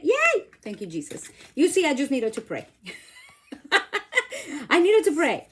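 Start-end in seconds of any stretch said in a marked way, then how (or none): 0.0-0.4 high, loud yay of triumph; joyful squeal; excited cheer. Real, not acted. Ribbon finally through. 2.9-5.5 loud, high laughing line; gleeful laughing. Real, not acted. Joking after success.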